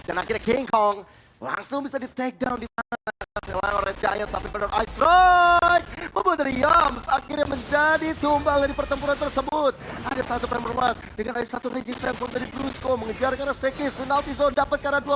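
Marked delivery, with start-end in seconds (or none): 4.9-9.7 excited shout. Real, not acted. Caster calls team fight.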